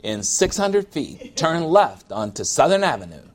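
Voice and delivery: hint of a robotic car guide; GPS voice. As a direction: read it like a sat-nav. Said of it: "It's gonna say".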